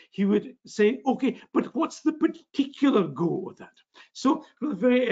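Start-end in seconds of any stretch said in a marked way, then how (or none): 1.1-3.8 put-on pressing follow-up in a Scottish accent, pitched higher. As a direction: push for the particular "go" in Scots. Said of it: "my Scottish accent is from the f".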